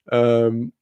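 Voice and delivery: normal talking voice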